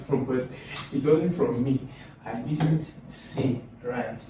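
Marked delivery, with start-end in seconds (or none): 2.2-3.6 I DIDN'T SAY spaced out slowly; slow, deliberate weight on DIDN'T SAY; stress demo. Shown as a demonstration. Teacher showing the class where stress falls, slow and deliberate. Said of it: "So that carries the stress".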